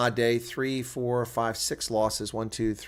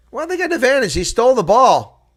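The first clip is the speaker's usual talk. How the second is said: much higher and louder outburst; indignant protest; 13 semitones higher, 12 dB louder than usual. Real, not acted. Fan protesting the referee's turnover call, indignant outburst. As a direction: object hard to the ruling.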